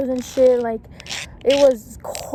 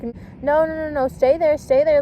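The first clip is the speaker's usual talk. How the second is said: mildly urgent retold plea, pitched higher; urgent pleading; 4 semitones higher than usual. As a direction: re-enact begging someone to stay put. Urging woman not to jump.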